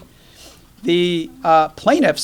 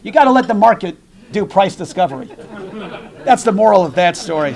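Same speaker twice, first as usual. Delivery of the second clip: fast, still laughing, louder; 2 semitones higher, 4 dB louder, faster than usual. Real, not acted. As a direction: rattle off the moral while laughing. Laughing after joke.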